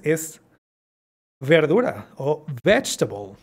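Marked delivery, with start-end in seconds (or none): 2.6-3.4 "vegetable" as VECH-ta-bol; silent middle E. Shown as a demonstration. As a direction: drop the second E of "vegetable". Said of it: "no suena esta E". ("vegetable" sin la segunda E)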